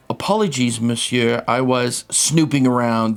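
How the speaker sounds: light mock French accent; a hint of a French accent. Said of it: "He got a whiff of your French accent".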